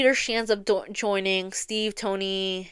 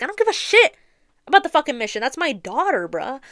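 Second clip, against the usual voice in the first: furious Tony; 6 semitones higher, 4 dB louder than usual. Retold or imitated. Tony furious about missing daughter.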